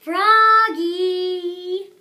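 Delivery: loud, high sung-out yell of a name. Acted. Friend Max yelling at Froggy across the bus, loud and high. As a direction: call him out like a kid on the bus. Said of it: "yelled his friend Max".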